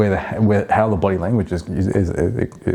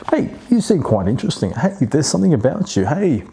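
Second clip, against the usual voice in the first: overeager greeting; 5 semitones higher than usual. Shown as a demonstration. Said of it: "as I would say, right, I'm trying".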